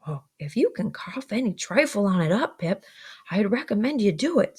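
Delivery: aghast. Acted. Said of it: "all aghast".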